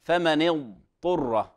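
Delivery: ض held before the ط in "اضطر"; correct recitation. Shown as a demonstration. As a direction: say "اضطر" slowly, letting ض sound fully before ط. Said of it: "في قوله تعالى".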